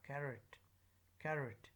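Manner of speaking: "carrot" with a weak "-ət" ending; O as schwa. Shown as a demonstration. Teacher showing schwa sound, weak O in "carrot". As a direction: reduce the O in "carrot" to "uh". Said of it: "the O is pronounced as the schwa sound".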